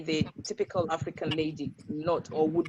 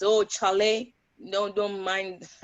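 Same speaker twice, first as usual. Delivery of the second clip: put-on Ghanaian accent; slower than usual. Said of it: "I'm trying to get my typical Ghana accent on".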